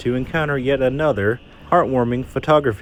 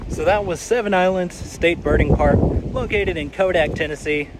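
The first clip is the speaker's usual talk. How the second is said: breathless after the hike; winded from the climb; out of breath; 4 semitones higher than usual. Real, not acted. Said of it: "I'm out of breath".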